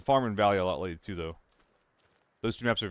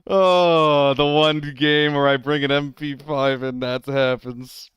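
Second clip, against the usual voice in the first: exasperated; 3 semitones higher, 6 dB louder, slower than usual. Real, not acted. Exasperated at bad luck.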